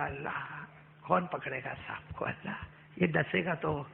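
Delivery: understated retold dread; timid protest. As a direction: plead softly, daunted by the task. Moses afraid to pick up snake.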